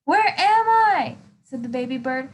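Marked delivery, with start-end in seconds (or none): 0.1-1.2 high, slow, startled question; high slow bewildered cry. Acted. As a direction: ask it dazed and lost. Bird lost after the ride.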